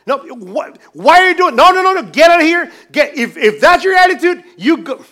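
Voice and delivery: high, loud hammed-up shout with a laugh; mock outrage. Pastor mimicking an angry rejection, hammed-up shout. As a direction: throw him out in mock fury.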